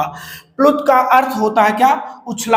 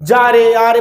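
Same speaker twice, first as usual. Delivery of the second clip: calling out; 4 dB louder, slower than usual. Shown as a demonstration. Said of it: "किसी को आप बुलाते हैं".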